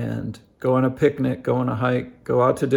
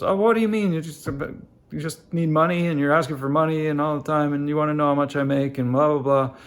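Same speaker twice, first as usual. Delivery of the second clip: higher, hammed-up exasperated rant; mock-exasperated father scolding; dad unloading; 3 semitones higher than usual. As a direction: retell the dad blowing up at his kid. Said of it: "the dad just kinda unloads on him".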